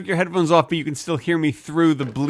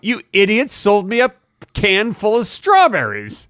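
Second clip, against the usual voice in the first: mock outrage, higher and drawn out; mean, indignant customer; 5 semitones higher than usual. Customer demanding refund at paint store, mock indignant. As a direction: act a mildly hammed-up angry complaint. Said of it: "be so mean to them".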